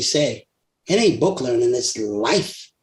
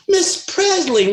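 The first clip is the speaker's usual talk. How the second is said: imitating reporters; 13 semitones higher, much slower than usual. TV crew addressing her.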